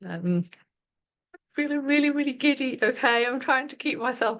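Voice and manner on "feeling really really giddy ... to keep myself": giddy. Real, not acted. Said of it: "suddenly I feel so giddy".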